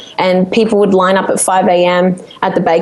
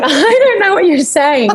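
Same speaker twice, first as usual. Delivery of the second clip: retold bafflement; 8 semitones higher than usual. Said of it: "And I'm like".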